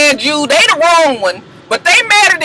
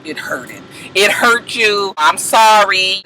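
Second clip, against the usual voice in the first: mock apology; 4 semitones lower, slower than usual. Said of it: "she was just like".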